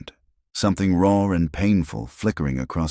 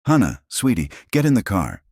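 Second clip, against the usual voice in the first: urgent mother; 5 semitones higher, 3 dB louder than usual. A narrator's reading. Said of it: "protective and terrified".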